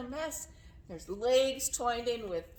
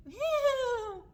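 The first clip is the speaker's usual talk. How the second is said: very high, wavering whinny; whinny like a zebra; zebra bray. Shown as a demonstration. Teacher leading zebra verse, high braying whinny. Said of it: "hear the zebras braying".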